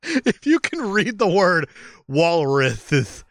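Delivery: walruses read slowly with a th lisp, "walruthes". Shown as a demonstration. Hosts mocking the spelling, lisping walruses. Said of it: "it's ridiculous the way it's written".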